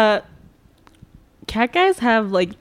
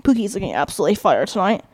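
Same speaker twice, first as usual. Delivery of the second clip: imitated Southern frat boy. Friend shows how the TikTok husband talks, light Southern frat-boy accent. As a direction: do a mild Southern frat boy admiring his girlfriend. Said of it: "southern accent, but, like, frat boy".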